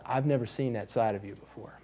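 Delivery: whispered, soft quote; hushed daughter's words. Retold or imitated. Daughter telling her dad what she saw, whispered. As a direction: hush it like a shaken daughter. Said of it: "she goes".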